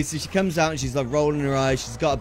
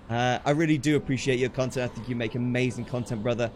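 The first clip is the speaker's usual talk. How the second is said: sincere thanks; 5 semitones lower, 4 dB quieter than usual. Real, not acted. Heartfelt thanks to a viewer.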